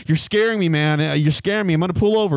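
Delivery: high, frightened mock whine; panicked driver. Driver tells the rider he's scaring him, high panicky whine. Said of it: "He's like".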